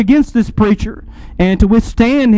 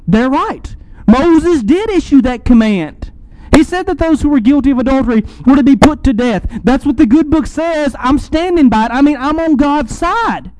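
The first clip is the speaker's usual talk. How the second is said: higher-pitched, insistent voice of a self-righteous believer; indignant law-abiding believer; 5 semitones higher than usual. Acted. Law-abiding believer siding with the Pharisees against the woman, insistent. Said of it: "would have stood behind the scribes".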